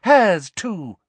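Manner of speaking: high, loud command; barked order. Acted. Umbridge orders Hermione disarmed too, barking. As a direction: bark the order across the room. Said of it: "she barked at someone".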